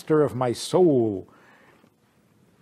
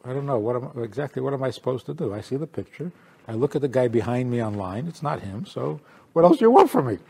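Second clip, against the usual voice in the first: comedian's complaint; 2 semitones lower, 3 dB quieter, faster than usual. Retold or imitated. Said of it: "He says".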